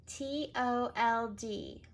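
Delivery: T O L D letter by letter; careful spelling; spelled out. Shown as a demonstration. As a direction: spell each letter slowly.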